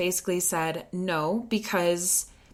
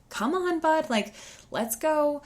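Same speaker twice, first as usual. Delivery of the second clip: much higher, sing-song coaxing; high encouraging parent voice; coaxing a kid; 10 semitones higher than usual. Retold or imitated. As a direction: chivvy a dawdling child along kindly. Coaxing a sulking kid along.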